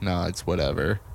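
low, level, offhand dismissal; monotone brush-off. Retold or imitated. Monotone talker waving off a question, flat. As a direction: toss it off without inflection. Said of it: "with a monotone voice like me".

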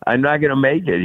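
a hint of Dad's Cuban accent; father's Cuban accent. Son voicing father declining baseball offer, light Cuban accent. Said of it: "he could talk like this".

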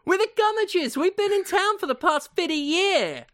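proud clan introduction in a Southern twang; Southern accent. Acted. JoJo Gummidge introducing the family, hammed-up Southern accent. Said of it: "No southern accent for Bacon Gummidge".

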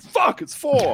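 high-pitched, laughing outburst of frustration; mock dismay. Man finding he bought too few blades, high comic dismay. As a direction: shoot up high as the mistake dawns. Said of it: "I went home and I went".

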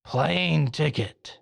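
slow, insistent divine voice; mildly impatient command from above; kinda annoyed. Acted. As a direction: stretch it out with a touch of annoyance. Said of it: "kinda getting annoyed or angry".

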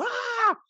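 very high-pitched "ah"; mock child's scream. Imitating a child forced into splits, high mock scream. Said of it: "el nene gritando".

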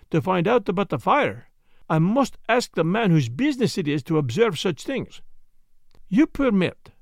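lightly voiced fussy Belgian detective, precise and measured; a precise little detective lecturing the doctor; Poirot's voice. Detective explains his method to the doctor, lightly voiced and precise.

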